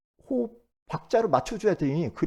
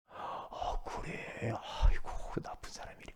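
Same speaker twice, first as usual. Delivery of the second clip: gossipy whisper; 10 dB quieter, slower than usual. Retold or imitated. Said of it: "막 이러면 들어줘".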